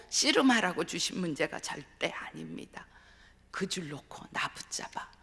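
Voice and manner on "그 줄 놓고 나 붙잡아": the Lord's gentle voice. Retold or imitated. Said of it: "그렇게 주님이 하시는 것입니다".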